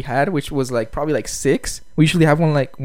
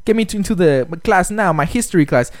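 mock demanding student; 4 semitones higher, faster than usual. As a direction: push it out like an impatient student. Retold students demanding registration.

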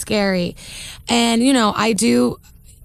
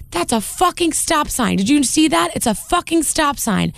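imitated angry scolding; 5 semitones higher than usual. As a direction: act out the driver's rebuke, stretching the words. Retelling the raging driver's rebuke.

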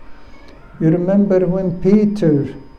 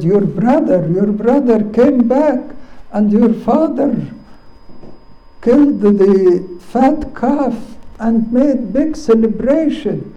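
excited servant; 5 semitones higher than usual. Acted. Servant voiced, excited news.

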